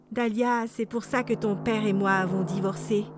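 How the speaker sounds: a touch of sadness, low; understated sad admission; sadly. Acted. Mother telling her daughter why they divorced, sadly. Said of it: "a dit maman tristement".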